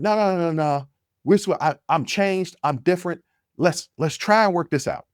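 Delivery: scrambling to win her back, voice jumping up; pleading no no no. Retold or imitated. Begging his girlfriend not to end it, frantic pleading.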